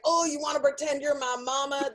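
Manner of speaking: lightly Southern caller; Southern accent. Retold or imitated. Caller asking the operator to role-play, light Southern accent. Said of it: "They're not all Southern like you".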